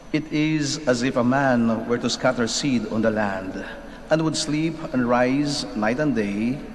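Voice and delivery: solemn scripture reading; gospel reading. Acted. Reads the gospel aloud.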